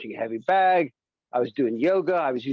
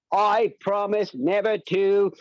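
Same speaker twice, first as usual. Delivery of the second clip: stiff presidential voice; 5 semitones higher, slower than usual. Pretend. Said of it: "No, that's Grover Cleveland".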